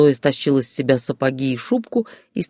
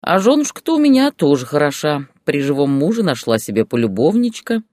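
rude jab. Acted. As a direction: throw the taunt coarsely. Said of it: "грубо ответил Боря". (муж грубо и громче язвит жене)

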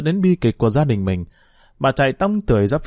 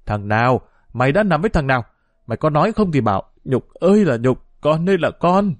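angry scolding; 2 semitones higher than usual. Acted. Mother berates daughter.

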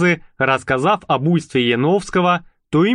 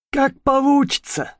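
high, perky little mouse; 12 semitones higher than usual. Acted. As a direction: play the cheeky mouse convict. Mouse answers. (писклявый голос мыши)

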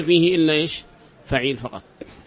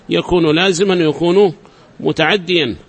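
ordinary talk, nothing marked

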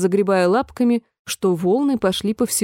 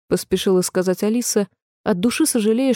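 plain reading voice

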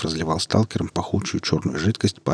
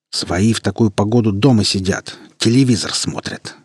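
gloating; 3 dB louder than usual. Acted. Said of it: "злорадно выдал призрак".

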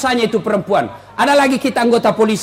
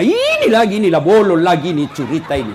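mock suspicion; 7 semitones lower than usual. Wife suspecting husband told the secret, mock accusing grumble. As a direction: put on a suspicious wife's grumble, pitch dropping. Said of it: "Langsung dia curigai suaminya".

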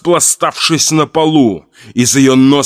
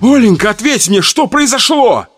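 desperate questions; 10 semitones higher than usual. A narrator's reading. Husband shaking wife, desperate questions.

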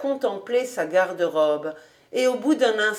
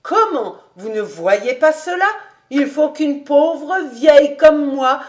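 put-on persuasive old housekeeper; 4 semitones higher, 5 dB louder than usual. Housekeeper telling master what suits him, emphatic persuasion. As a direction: coax him with lively, weighted phrases.

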